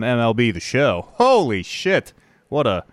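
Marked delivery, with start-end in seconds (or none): 1.1-2.8 slow, drawn-out excited announcer call; baseball announcer voice. Pretend. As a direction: call it like a home run on air. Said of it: "I just fell into my baseball announcer voice".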